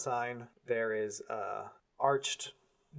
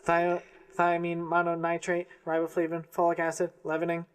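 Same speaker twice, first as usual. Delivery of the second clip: chipmunk voice; 4 semitones higher, 4 dB louder than usual. Acted. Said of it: "I can't do a chipmunk voice".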